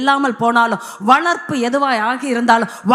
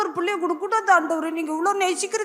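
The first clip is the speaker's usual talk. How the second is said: imitated weeping plea; 3 semitones higher, 5 dB quieter than usual. Woman begging God for one child, imitated weeping plea. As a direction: plead tearfully, fading softer. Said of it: "அழுன்னு அழுவும் போது".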